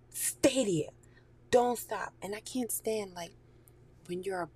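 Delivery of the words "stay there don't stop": firm command. Retold or imitated.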